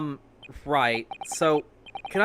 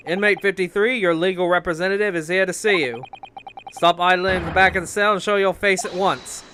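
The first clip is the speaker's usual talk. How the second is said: louder, commanding guard calling into the cell; stern guard order; 2 semitones higher, 5 dB louder than usual. Acted. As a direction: bark the order at the prisoner. Guard orders prisoner to show himself.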